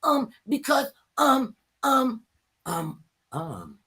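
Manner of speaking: loud, high-pitched mimicry of clueless complainers; mock whining complaint. Host mocks lawmakers lacking impeachment reasons, hammed-up whine. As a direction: imitate their griping, then stall on the ums. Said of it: "you wanna whine and complain about".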